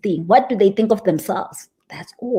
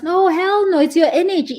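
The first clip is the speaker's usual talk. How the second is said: emphatic hell no; 9 semitones higher than usual. Real, not acted. Rejecting the complaint emphatically.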